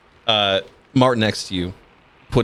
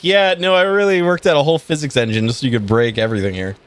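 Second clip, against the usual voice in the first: sarcastic; 4 semitones higher, 3 dB louder, faster than usual. Retold or imitated. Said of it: "I was like".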